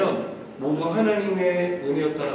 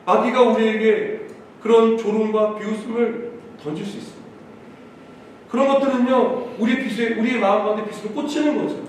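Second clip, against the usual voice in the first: raised, measured preaching voice; emphatic preaching; 5 semitones higher, 4 dB louder than usual. Real, not acted. Pastor urging the congregation to trust God's leading, emphatic preaching. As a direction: preach with conviction, phrase by phrase.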